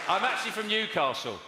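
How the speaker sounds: talking through a bite of cake; mouth full. Real, not acted. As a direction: say it round a mouthful. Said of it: "Are you eating or something?".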